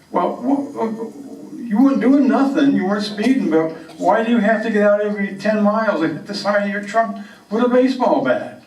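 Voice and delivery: high, quick puzzled cop; policeman voice. Retold or imitated. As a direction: ask it like a baffled trooper. Policeman questions Camden.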